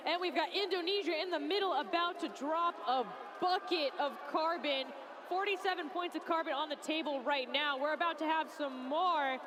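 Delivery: quick, excited sports call; live play-by-play. Real, not acted. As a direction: rattle off the action fast.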